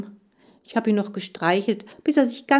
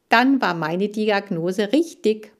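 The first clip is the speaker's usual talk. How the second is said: slow, louder show-off brag; boasting; 3 semitones higher, 6 dB louder than usual. Acted. Dog bragging to the girls about his diagnosis. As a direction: show off your correct diagnosis. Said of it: "protzte ich".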